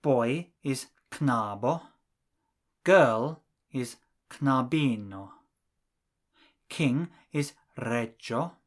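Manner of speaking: knabo, knabino, reggio, regino said slowly and clearly; slow clear examples. Shown as a demonstration. Teacher reading examples slowly to the class. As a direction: spell out each word slowly for learners. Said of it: "Here are some more examples".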